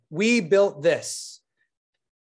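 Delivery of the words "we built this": "we" stressed, slow and deliberate. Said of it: "You built this".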